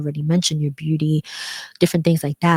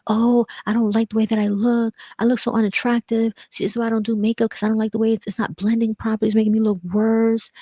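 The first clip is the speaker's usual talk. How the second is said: higher, whiny self-talk at the mirror; voicing frustration at yourself while doing makeup, higher whine; acted frustration; 6 semitones higher than usual. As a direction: act out being fed up with your makeup. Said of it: "Now I'm getting frustrated".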